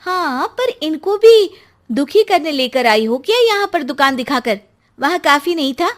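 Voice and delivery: high, loud bitter complaint; bitter outburst. Acted. Wife protests to mother-in-law, loud and bitter. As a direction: she lashes out, voice up and loud.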